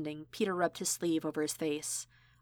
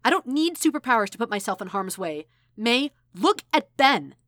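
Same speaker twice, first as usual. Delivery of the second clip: louder, higher, slowing on look at Ben; snapping shout; 6 semitones higher, 9 dB louder than usual. Acted. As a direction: hurl the words at her. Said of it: "before snapping".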